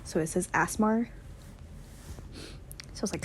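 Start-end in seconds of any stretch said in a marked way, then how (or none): 0.5-1.1 "asmar" with an r ending; accented asthma. Shown as a demonstration. Reader shows how Piggy says asthma, "asmar" with r. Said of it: "he talks like a Texan".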